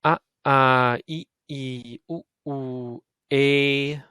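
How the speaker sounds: Ah short, ah held long; vowel pair short and long; short then long ah. Shown as a demonstration. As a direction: clip the first Ah, stretch the second ah. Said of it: "Make the first one very short".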